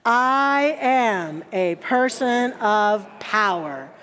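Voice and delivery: slow, deliberate declaration of power; slow spoken affirmation. Shown as a demonstration. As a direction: say it slowly and solemnly, every word planted. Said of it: "we say to ourselves".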